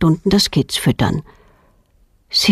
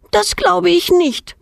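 defiant; 11 semitones higher than usual. A narrator's reading. Defiant girl contradicts father.

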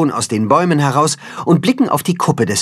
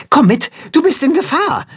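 urgent interruption; 13 semitones higher than usual. A narrator's reading. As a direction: cut in with alarm, much higher. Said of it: "unterbricht Timme".

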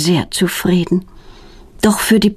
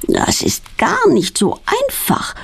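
groaning; 9 semitones higher, slower than usual. A narrator's reading. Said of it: "stöhnt sie".

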